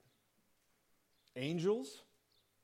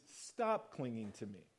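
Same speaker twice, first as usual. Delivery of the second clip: gentle; 7 semitones lower, 8 dB quieter than usual. Retold or imitated. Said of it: "what Jesus is saying is".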